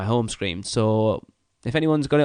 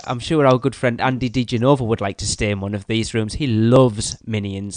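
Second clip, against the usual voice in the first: dry sarcastic praise, louder; 4 dB louder than usual. Real, not acted. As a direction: lay the sarcasm on, slowing down. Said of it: "Note the hint of sarcasm".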